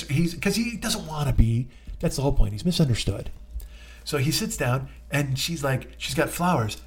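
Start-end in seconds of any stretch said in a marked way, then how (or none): none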